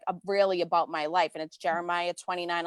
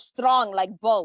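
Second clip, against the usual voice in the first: mock macho boast; much slower than usual. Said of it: "He goes".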